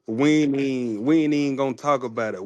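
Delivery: Southern "we ain't" slurred into one word; Southern dialect. Shown as a demonstration. Caller demonstrating his home speech to the host, Southern dialect. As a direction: run the words together, Mississippi style. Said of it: "in southern dialect".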